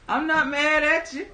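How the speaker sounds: amused laughing reassurance. Real, not acted. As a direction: reassure them while laughing. Laughing at chatter's reply.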